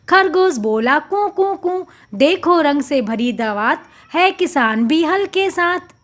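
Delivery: lilting sing-song reading of a rhyme; rhythmic poem recitation. Shown as a demonstration. Teacher reciting the poem to children in rhythm. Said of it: "लय के साथ पढ़ें".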